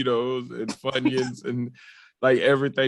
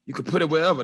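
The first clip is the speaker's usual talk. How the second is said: lightly mocked infomercial preacher; a hint of televangelist salesman; Curtis Thomas; 2 semitones higher, faster than usual. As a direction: rattle off the offers like a TV pitchman. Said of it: "That's the Curtis Thomas".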